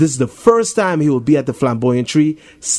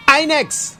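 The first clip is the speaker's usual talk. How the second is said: shouting; 14 semitones higher than usual. Acted. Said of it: "Jason shouts".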